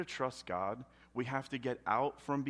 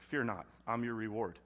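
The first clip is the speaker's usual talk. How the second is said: 1 gentle God; 3 semitones lower, 5 dB quieter than usual. Acted. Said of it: "he's like".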